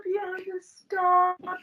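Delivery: laughing plea. Real, not acted. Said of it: "I'm crying".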